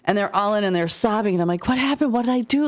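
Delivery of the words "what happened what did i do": retold panic. Babysitter retells panic at sobbing moms.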